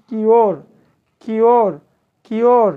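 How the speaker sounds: কিওর loud, as ki-yor; yo glide. Shown as a demonstration. Teacher drilling an example word for students, emphatic yo glide in কিওর. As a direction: punch out কিওর each time, falling on the yo glide. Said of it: "এখানে কিন্তু ইউ হচ্ছে".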